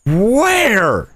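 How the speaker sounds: high startled question; surprised question. Real, not acted. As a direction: snap around at it. Spots the tower.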